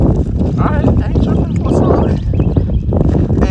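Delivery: breathy laughter over loud mock bravado; laughing through it. Real, not acted. Friend daring the rival while cracking up, laughing. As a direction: giggle out the challenge.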